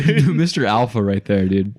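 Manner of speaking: loud, slow laughing jeer; laughing mockery. Real, not acted. Salesman laughing about the homeowner to his friend, loud. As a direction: laugh while mocking the guy.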